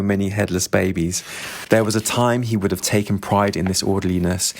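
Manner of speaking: steady, even audiobook reading; measured literary narration; story narration. A narrator's reading. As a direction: read the novel to listeners. Reads the novel aloud.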